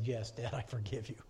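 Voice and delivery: whispered, barely voiced forgiveness; soft whisper. Daughter softly forgiving her father, whispered. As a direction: breathe it out like a quiet child. Daughter answers from back seat.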